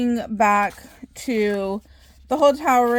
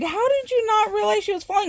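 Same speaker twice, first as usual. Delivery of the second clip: imitating mom; 10 semitones higher, faster than usual. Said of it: "even my mom was like".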